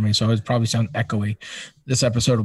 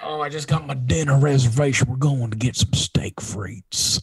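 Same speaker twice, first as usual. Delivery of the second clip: ASMR whisper; 4 dB quieter than usual. Pretend. Telling listeners about dinner, ASMR whisper. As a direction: whisper the dinner plans, savoring them.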